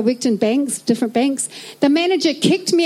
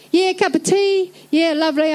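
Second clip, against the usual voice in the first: mock Scottish dad; 4 semitones higher than usual. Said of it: "my Scottish dad is like".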